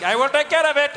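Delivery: a hint of the helpful wife taking charge; wife's calm reply. Husband quoting wife fixing the computer, lightly voiced. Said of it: "She's like".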